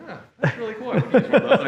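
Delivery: high and laughing, imitating his own earlier reaction; laughing mock quote. Laughing as he retells seeing the brushes, high and giggly.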